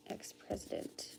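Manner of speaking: whispered Ex-president. Shown as a demonstration. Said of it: "Ex-president. (plain take)".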